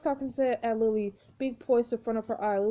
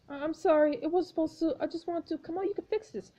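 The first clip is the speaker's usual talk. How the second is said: sobbing apology; 6 semitones higher than usual. Acted. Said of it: "voice racked with sobs".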